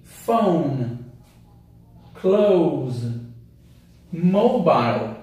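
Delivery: British English pronunciation model. Shown as a demonstration. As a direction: clear British teacher demo of Phone, Close, Mobile. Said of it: "Em inglês britânico".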